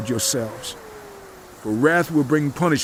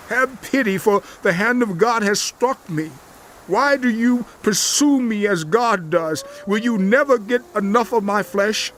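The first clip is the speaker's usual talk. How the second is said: much higher, anguished cry; desperate pleading; 8 semitones higher than usual. Acted. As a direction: cry out to them, near breaking. Job begs his friends.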